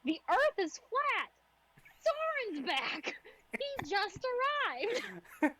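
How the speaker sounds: high, very slow monotone. Acted. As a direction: drag out each word flatly. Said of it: "monotone voice".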